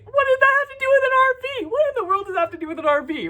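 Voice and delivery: very high, loud, fast squeal; hammed-up squeaky bafflement; incredulous outburst. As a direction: blurt it out in exaggerated disbelief. Acted baffled outburst at God.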